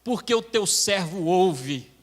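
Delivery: slow, drawn-out reply to God; ceremonious answer to a divine call; demonstrated prayer response. Shown as a demonstration. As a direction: stretch the opening words, then settle reverently. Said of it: "Diz assim, ó".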